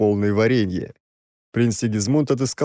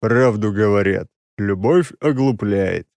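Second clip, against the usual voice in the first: slow, sighing, resigned; sighing remark; slower than usual. Acted. Oleg sighs over the lovestruck prince, slow resigned sigh. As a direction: sigh it out wearily. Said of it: "вздохнул я".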